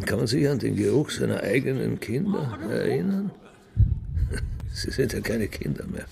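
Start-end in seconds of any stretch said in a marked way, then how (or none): 3.7-4.7 short scoffing laugh. Acted. Father scoffs at his own question.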